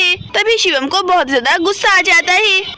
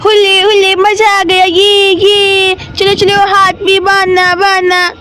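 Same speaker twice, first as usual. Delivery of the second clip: put-on louder child-character cheer with stretched words; gleeful little Shivam; 5 dB louder than usual. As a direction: cheer like a mischievous boy, louder than the narration. Voices boy Shivam gleeful, louder. (शरारती बच्चे की खुशी भरी, तेज़ आवाज़)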